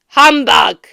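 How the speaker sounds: put-on loud, scornful old-man snort; Scrooge scoffing. A narrator's reading. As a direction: spit it out in disgust.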